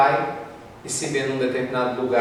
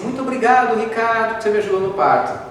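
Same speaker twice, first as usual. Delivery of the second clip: grateful woman; 5 semitones higher than usual. Acted. Woman thanking him, voiced.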